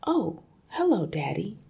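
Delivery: put-on high, sweet little-girl greeting; pleasant girl. Girl cheerfully greeting her angry father. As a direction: greet Daddy brightly as if nothing's wrong. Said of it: "she said pleasantly".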